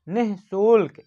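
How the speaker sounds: निःशुल्क read slowly with a breath after नि; slow clear reading. Shown as a demonstration. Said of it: "इसको हम लोग पढ़ेंगे निःशुल्क". (निःशुल्क को धीरे बोलें)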